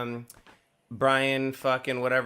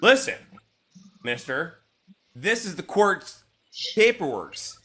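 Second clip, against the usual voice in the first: halting, over-deliberate acted plea; exasperated explaining; 3 semitones higher than usual. Process server explaining court paperwork to husband, exasperated patience. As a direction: lay it out piece by piece, pitch leaping on key words.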